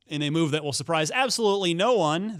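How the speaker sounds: ordinary talk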